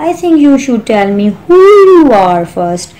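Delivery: cross storybook Alice standing her ground; quite angry. A narrator's reading. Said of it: "Alice was quite angry".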